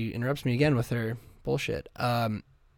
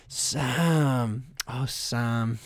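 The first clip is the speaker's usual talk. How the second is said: Frodo sigh; much slower than usual. Retold or imitated. Frodo voice repeated.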